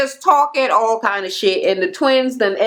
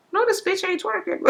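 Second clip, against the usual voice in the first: laughing quote; 9 semitones higher, 6 dB quieter than usual. Retold or imitated. Twins mocking Tanya's twerking.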